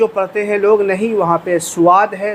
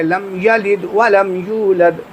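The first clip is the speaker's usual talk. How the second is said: لم یلد ولم یولد a little quicker but still clear; a bit faster; much slower than usual. Shown as a demonstration. Teacher shows a faster but correct reading. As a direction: pick up the pace slightly, keep it clean. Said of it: "تھوڑا سا اور تیز".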